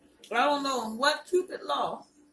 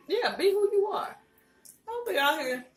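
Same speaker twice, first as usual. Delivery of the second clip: emphatic; 11 semitones higher, 5 dB louder than usual. Real, not acted. Emphatic rant, higher and louder.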